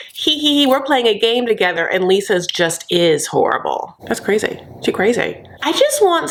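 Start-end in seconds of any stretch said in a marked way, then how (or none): 0.1-1.9 mock scheming giggle. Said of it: "are both like".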